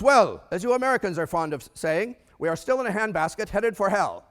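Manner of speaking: imitated foreign economist, German-accented and emphatic. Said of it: "a German accent".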